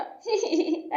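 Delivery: brief tittering chuckle; short laugh. Acted. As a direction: let out a little titter. Bald women meet, one laughs.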